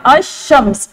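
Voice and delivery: अशम्स with the lam dropped into a doubled sh, a-shshams; assimilated al-shams. Shown as a demonstration. Teacher demonstrates the joined sh sound to students, slow careful pronunciation. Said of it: "अलिफ को शीन में मिला दिया जाएगा".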